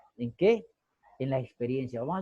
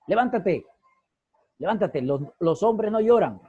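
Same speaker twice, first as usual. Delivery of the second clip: stern father; 3 semitones higher, 4 dB louder than usual. Retold or imitated. Father to fallen crying boy.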